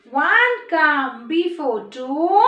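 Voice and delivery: very slow sing-song, words stretched; slow rhythmic teacher chant; number rhyme recitation. Shown as a demonstration. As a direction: lead the class in a drawn-out chant. Recites the poem for children.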